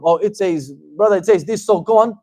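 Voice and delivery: imitating a preachy literalist pushing his point; mock arrogance. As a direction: lecture a brother smugly, rising. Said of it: "This arrogance".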